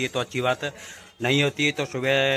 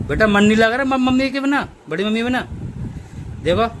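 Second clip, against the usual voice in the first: high pet talk; 9 semitones higher than usual. Real, not acted. Owner consoling pet who misses big mummy, high cooing baby talk.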